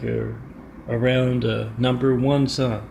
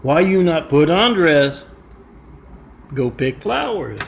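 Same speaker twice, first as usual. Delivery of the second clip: a hammed-up father's outburst in broken English, much louder at the start; mock angry father; 3 semitones higher, 6 dB louder than usual. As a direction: scold the son for shaming the family in a put-on accent. Father continues the tirade.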